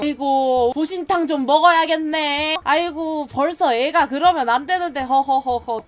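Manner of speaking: tut-tut like an amused grown-up; mock elder dismissing. Family brushing off the child's story, amused.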